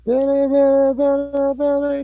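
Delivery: very high cooing pet voice. Real, not acted. Talking to the dog again.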